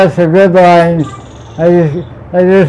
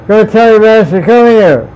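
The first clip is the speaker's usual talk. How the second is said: bossy order, a bit higher; commanding order; 4 semitones higher than usual. Acted. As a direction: order the swan to fetch him. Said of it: "That's very commanding".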